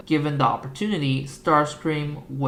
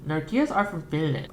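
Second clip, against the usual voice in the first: put-on Australian accent. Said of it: "I'm trying to do an Australian accent".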